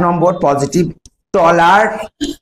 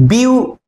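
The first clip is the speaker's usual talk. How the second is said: "বিউ" alone, higher, then stop; syllable cut off; 5 semitones higher, slower than usual. Shown as a demonstration. Teacher breaking beautiful into syllables, stopping after each. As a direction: say "বিউ" as a separate syllable and pause. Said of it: "থেমে যাও".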